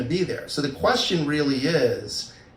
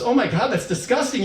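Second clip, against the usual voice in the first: higher, appalled exclamation; mock disgust; 6 semitones higher than usual. Partner reacting to the described dream, disgusted. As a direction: imitate a partner recoiling in disgust.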